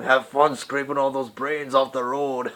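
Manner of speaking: slow gruff tough-guy line; a self-mocking try at a tough-guy actor; Danny Trejo impression. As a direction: growl it out slow like a hard movie heavy. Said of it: "I can't do Danny Trejo".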